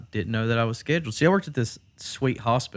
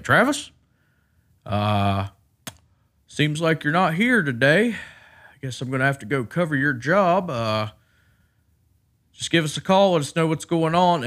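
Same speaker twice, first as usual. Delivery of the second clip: higher, louder mock voicemail; annoyed caller; 5 semitones higher, 5 dB louder than usual. Coworker leaving an annoyed voicemail, louder and higher. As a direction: imitate the irritated coworker's message. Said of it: "The next one's like".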